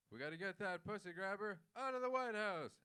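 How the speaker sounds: imitating a rousing speaker; rally speech. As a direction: rouse a crowd like a senator at a march. Acted rally speech quote.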